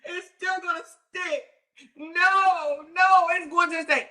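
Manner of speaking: high, whiny mock-crying voice; mocking Donna. Mimicking Donna insisting the case still sticks, whiny and high. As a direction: whimper it like a sore loser. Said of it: "She's like".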